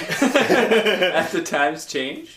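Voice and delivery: slow, drawn-out hype announcer breaking into laughter. Pretend. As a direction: stretch it like a ring announcer, then crack up. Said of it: "do your best announcer voice".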